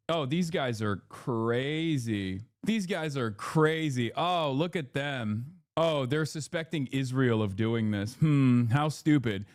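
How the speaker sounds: slow, sneering mock of a smug outlet; drawn-out sarcastic scoffing. Streamer mocking the news outlet's smug tone, sarcastic. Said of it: "they take this weird tone".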